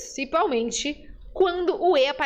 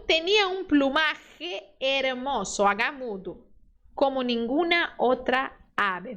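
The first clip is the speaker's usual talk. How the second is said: slow model reading; slower than usual. Shown as a demonstration. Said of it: "eu vou ler e você lê depois".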